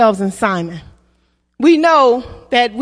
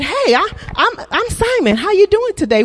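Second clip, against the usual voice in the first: higher-pitched, chummy hello; mock casual introduction; 4 semitones higher than usual. Preacher playing Simon greeting Jesus, mock chummy introduction. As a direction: introduce yourself like a chirpy newcomer.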